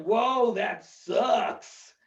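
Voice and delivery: very slow, drawn-out brush-off; drawled oblivious sympathy; unconcerned. Acted. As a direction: stretch each word, not really caring. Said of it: "being white and unconcerned".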